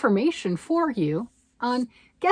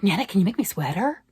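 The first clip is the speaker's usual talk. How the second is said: put-on excited child; 4 semitones higher, 11 dB louder than usual. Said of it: "She's like".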